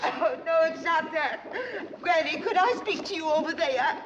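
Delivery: tearful. Acted. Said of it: "You got the sniffles?".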